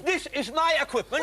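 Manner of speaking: high, loud squeaky alien; squeaky angry puppet. Acted. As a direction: burst in as an indignant creature. Puppet arguing.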